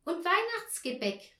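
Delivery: put-on high, loud child's shout; boy calling out at the table; eager call. A narrator's reading. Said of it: "rief Paul".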